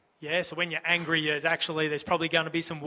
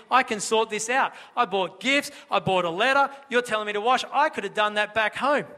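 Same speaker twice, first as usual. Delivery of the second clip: higher, self-important grumbling; a hint of arrogant complaint; 4 semitones higher, 3 dB louder than usual. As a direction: sound full of himself.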